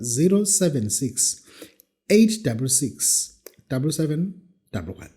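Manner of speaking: slow repeated digits; slow school dictation. Shown as a demonstration. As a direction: read it out slowly for writing. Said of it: "Let me repeat the number".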